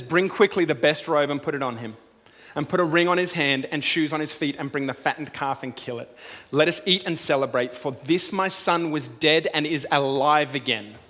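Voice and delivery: loud, urgent call to servants; yelled order. Acted. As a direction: proclaim it to the servants. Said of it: "but he yells to his servants".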